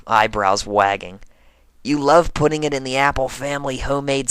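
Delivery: sporty pegasus telling a romance story; in-character tomboy pony voice. Acted. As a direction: stay in the high character voice the whole tale. Whole story told in character voice.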